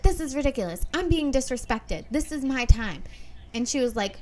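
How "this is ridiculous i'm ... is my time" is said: mock outraged attorney. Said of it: "he's like".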